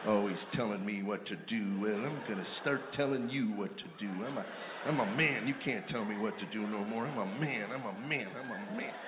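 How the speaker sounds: put-on low, muttered old man grumbling to himself; a hunched husband griping under his breath. Hunched old husband grumbling behind his wife, muttered low.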